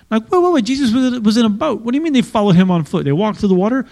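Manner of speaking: high, fast wait wait wait, then settling back down; incredulous surprise. Acted. Preacher stops the congregation over the boat, incredulous. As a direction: pull up short in disbelief.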